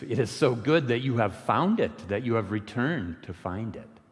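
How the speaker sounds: mildly unhinged joy bubbling over; semi-hysterical delight. A narrator's reading. Ferryman greeting Sid's return, lightly semi-hysterical. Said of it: "kind of semi-hysterically".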